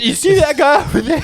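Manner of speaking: high-pitched mock drunk excitement; excited drunk bar patron. Drunk patron pointing someone out to Johnny, mock excited. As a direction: call it high to a drinking buddy.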